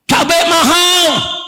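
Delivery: high, drawn-out cry of the people; slow high-pitched protest yell. Retold or imitated. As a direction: imitate a crowd's complaint, stretching the words. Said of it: "Rakyat teriak".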